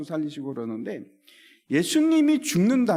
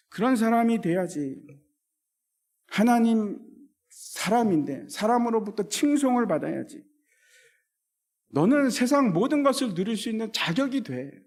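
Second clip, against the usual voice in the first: tempting Satan; 3 semitones higher than usual. Acted. Satan tempting Jesus, voiced.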